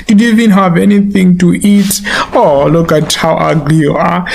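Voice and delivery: mildly affectionate mock pity; lightly acted pet-talk hiding the insult; sweet-talked insults. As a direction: coo insults at a dog as if praising it. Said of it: "because of the way the man is speaking".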